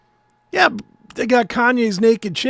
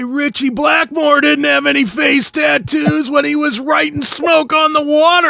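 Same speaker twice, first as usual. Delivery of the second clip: grumpy rocker rant; 5 semitones higher, 4 dB louder than usual. Retold or imitated. Continuing the mock rant.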